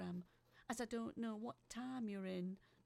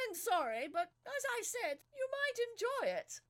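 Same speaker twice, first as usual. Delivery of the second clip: higher, louder cheeky man's voice; cheeky John; 11 semitones higher, 8 dB louder than usual. Acted. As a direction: play John as a smug charmer. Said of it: "he said almost politely".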